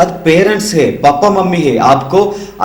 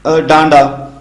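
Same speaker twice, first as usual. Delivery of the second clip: mock sulking kid, pitched up; sulky child; 5 semitones higher than usual. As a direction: whine like a small child caught lying. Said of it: "ऐसे आपने बोलना ही नहीं". (रूठे बच्चे की हल्की नकल)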